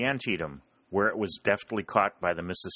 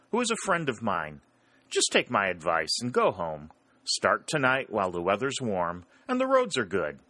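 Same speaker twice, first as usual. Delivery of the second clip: friendly advice; 3 semitones higher than usual. Acted. Jim advising the Yankees to go home, lightly voiced. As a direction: advise them with a wink.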